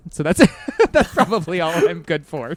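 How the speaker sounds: self-mocking laugh while talking. Real, not acted. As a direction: laugh as you put yourself down. Self-deprecating joke with laughter.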